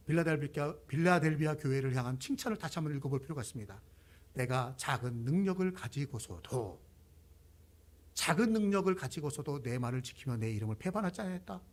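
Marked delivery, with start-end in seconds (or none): 4.3-11.6 scripture reading. Acted. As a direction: read the verse out in a lower, measured voice. Reads out a Bible verse. (낮고 차분한 성경 낭독)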